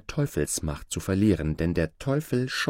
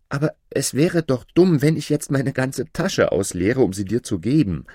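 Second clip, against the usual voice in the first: higher, animated protest; puzzled, wondering; 5 semitones higher, 5 dB louder than usual. A narrator's reading. Aladin questions the sorcerer's odd demand, puzzled and animated. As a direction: reason with him in mild astonishment. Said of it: "wunderte sich Aladin".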